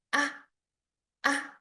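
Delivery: short, light "Ah"; touch "Ah" briefly and let go; quick "Ah" with no drawn-out tail; neutral tone. Shown as a demonstration. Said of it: "light and short".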